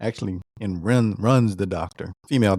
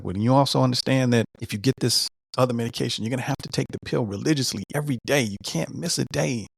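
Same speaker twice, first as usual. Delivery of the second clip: higher-pitched, hurried medical caution; quick, raised-pitch retold warning; fast-talking doctor; 4 semitones higher than usual. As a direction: rattle it off like a busy doctor. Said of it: "she talked really fast".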